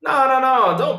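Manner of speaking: high loud no no no; loud high protest; urgent stop. Real, not acted. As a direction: rush to stop the ban. Stopping moderator ban.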